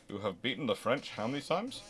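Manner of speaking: normal talking voice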